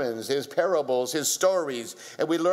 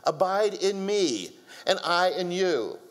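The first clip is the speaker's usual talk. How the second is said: voicing Jesus; 5 semitones higher than usual. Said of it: "he said".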